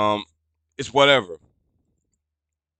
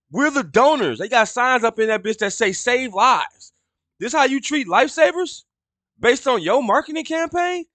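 indignant rant; 10 semitones higher than usual. Real, not acted. Ranting about donor treatment.

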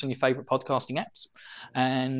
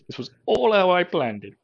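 gleeful villain, louder; evil mastermind; 5 semitones higher, 4 dB louder than usual. Pretend. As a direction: gloat like a mastermind. Scheming mastermind voice.

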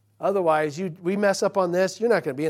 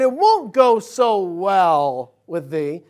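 slow, solemn King James cadence, louder; scripture echo; 3 semitones higher, 10 dB louder, much slower than usual. Acted. Preacher warning the congregation in Bible words, slow and solemn. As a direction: lean into the old wording slowly.

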